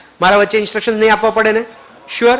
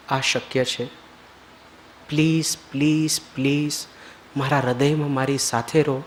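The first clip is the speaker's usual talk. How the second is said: led prayer; 6 semitones lower, 5 dB quieter than usual. Real, not acted. Guru leads the group in heartfelt prayer before the Lord, soft and devout. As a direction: pray from the heart, hushed.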